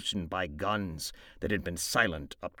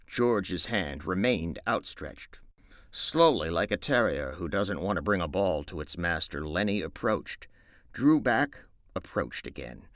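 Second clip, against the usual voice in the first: louder, animated storybook reading; story narration; 3 dB louder than usual. A narrator's reading. Narrator opening Of Mice and Men, read aloud with animated delivery. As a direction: read the opening like a performer to listeners.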